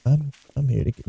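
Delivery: soft creepy-stalker voice; creepy character. Acted. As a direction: play him lightly as a quiet creep. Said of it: "he looks so creepy when he walks".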